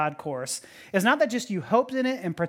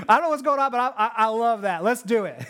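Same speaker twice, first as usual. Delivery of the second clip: clueless rioter. Acted. Voices clueless person joining riot.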